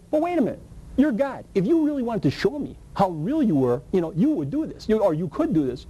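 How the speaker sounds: arguing excitedly with God while driving; excited bargaining. Retold or imitated.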